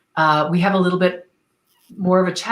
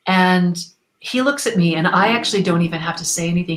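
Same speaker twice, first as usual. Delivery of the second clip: normal talking voice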